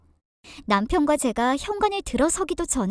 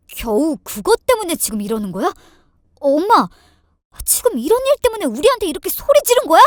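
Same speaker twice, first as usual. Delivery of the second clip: disbelief building to a loud, quick protest; incredulous husband; 3 semitones higher, 7 dB louder than usual. Acted. Husband angrily questions his mother. (어이없어하다 언성을 높이는 남편)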